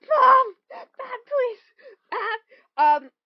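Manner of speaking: high-pitched whine of a mortified son; hammed-up protest, starting loud and high; mock embarrassed pleading. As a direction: act out begging a parent to stop. Retold embarrassed son pleading with mom.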